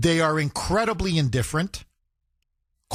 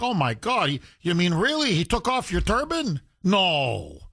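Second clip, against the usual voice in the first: mock sympathy. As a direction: ham up the cops fussing over him.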